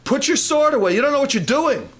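hint of a stern rebuke; lightly voiced Jesus. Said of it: "and he told Peter".

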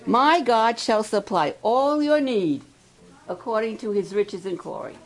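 preacher reading a short verse to the campers; scripture reading. Acted. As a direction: proclaim the promise in the verse. Reads second verse aloud.

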